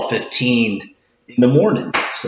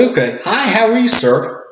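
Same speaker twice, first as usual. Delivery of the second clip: higher, bright customer-service hello; cheery cashier greeting; 11 semitones higher than usual. Retold or imitated. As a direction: greet an older gentleman brightly. Cashier greets older gentleman.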